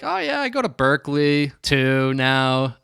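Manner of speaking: casual, offhand add-on; imitated nonchalance. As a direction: drop it in as no big deal. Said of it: "not making a big deal out of it".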